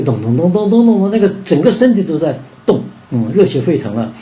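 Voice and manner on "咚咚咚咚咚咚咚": vocalized run of even thumps; rapid, steady "dong" beats; imitated jazz beat. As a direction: mimic a jazz groove with your mouth. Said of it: "玩爵士音乐那个".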